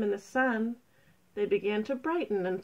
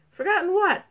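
high, loud puzzled question; 10 semitones higher, 8 dB louder, faster than usual. A narrator's reading. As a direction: call out confused.

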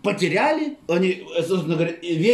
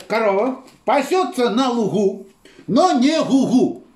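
singsong rhyme; 3 semitones higher, slower than usual. Acted. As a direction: chant it slowly like a nursery rhyme. Rhyming singsong delivery.

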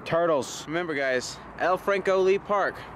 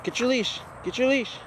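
talking to the dog; 7 semitones higher, 4 dB quieter than usual. Real, not acted.

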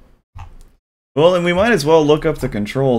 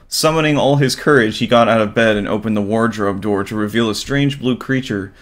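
measured story-reading voice; storybook narration. Acted. Streamer reading the game's backstory, storybook narration. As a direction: read it like a bedtime tale.

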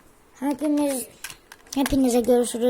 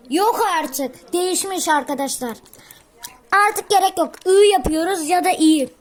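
surprised; 5 semitones higher, 6 dB louder than usual. Real, not acted. Surprised code changed.

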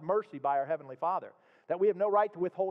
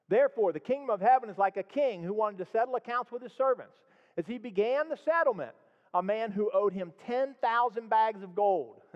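raised, earnest Bible reading; scripture read aloud with emphasis; 3 semitones higher than usual. Acted. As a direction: read the verses to the congregation. Reads the parable aloud.

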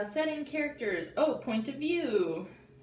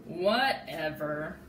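mock shrug; 6 semitones lower, much slower than usual. Froggy shrugs off friends.

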